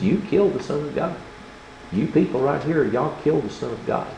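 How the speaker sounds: Peter accusing the crowd. Acted. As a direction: jab the finger at them with your voice. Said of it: "and he says".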